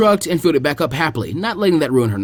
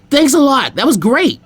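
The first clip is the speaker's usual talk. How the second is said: much higher, louder happy call; excited thanks; 9 semitones higher, 4 dB louder, slower than usual. Acted. Naruto thanking the cow that helped them, excited call. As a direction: cheer the helper loudly.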